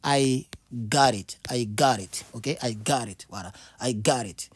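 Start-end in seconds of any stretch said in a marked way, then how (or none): 0.0-1.4 got said like gat, slowly; I got it, deliberate; slow model pronunciation. Shown as a demonstration. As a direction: spell it out slow for learners. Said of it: "Mais il faut dire".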